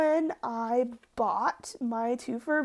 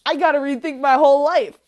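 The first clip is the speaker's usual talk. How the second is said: stunned excitement; 4 semitones higher, 11 dB louder than usual. Retold or imitated. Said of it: "and I was like".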